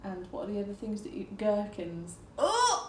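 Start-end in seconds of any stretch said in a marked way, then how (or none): 2.4-2.9 high, sudden "oh" of disgust; recoiling high yelp. Real, not acted. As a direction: squeal in revulsion. Disgusted outburst at naming gherkins.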